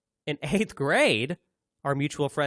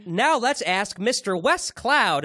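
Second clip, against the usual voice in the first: announcer voice; 8 semitones higher, 6 dB louder, slower than usual. Retold or imitated. Kids' video, introducing the expert.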